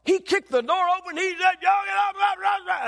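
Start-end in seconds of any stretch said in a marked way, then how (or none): 1.6-2.9 put-on high, loud garbled old-man rant; mock angry yelling. Preacher mimicking an eighty-year-old cursing at him, mock yelling. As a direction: imitate an irate man yelling gibberish. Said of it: "we just got yelled at and cursed at".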